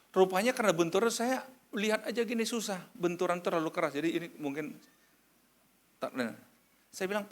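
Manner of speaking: ordinary talk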